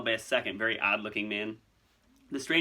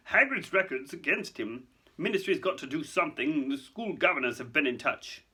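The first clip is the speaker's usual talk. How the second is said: higher, harried official voice; uncomfortable; 4 semitones higher than usual. Acted. Fudge explaining himself to Dumbledore, uncomfortable. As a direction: justify yourself uneasily. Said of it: "said Fudge uncomfortably".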